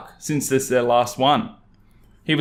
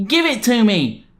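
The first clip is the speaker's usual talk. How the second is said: entitled mum; 9 semitones higher, 3 dB louder than usual. Acted. Entitled mum demands box.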